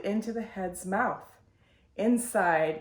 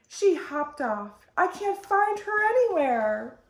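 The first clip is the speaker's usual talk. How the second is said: distressed; 9 semitones higher, 5 dB louder than usual. A narrator's reading. Mother frantic over lost child.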